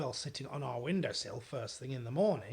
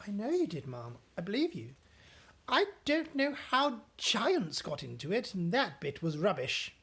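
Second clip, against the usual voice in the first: higher, soothing exchange; maid and Queen; 5 semitones higher, 4 dB louder than usual. Acted. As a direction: reassure then dismiss. Voices alternate.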